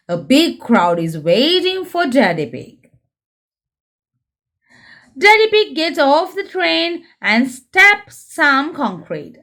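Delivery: lively storybook reading for little ones; reading to children. A narrator's reading. Presenter reading a Peppa book aloud to young viewers, lively storybook voice. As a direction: read it like a bedtime picture book.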